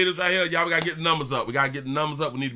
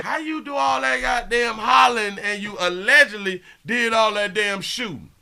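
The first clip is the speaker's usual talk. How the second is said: incredulous shout; 4 semitones higher than usual. Real, not acted. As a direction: yell it out, mocking his hollering. Ridiculing the suspect's hollering.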